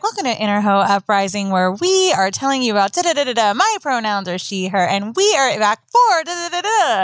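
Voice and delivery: polished anchor-style intro, lightly done; newscaster voice. Retold or imitated. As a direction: read it like a news host. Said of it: "It's like a good newscastery hoe".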